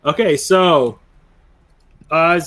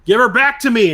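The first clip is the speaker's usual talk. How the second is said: high, loud battle cry; raised, demanding in-character shout; acted scream; 10 semitones higher, 6 dB louder than usual. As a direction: yell it out as the charging character. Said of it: "So you hear him scream".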